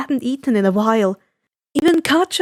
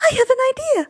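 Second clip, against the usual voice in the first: devious hint; 13 semitones higher, much faster than usual. Acted. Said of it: "Inko gave a devious grin".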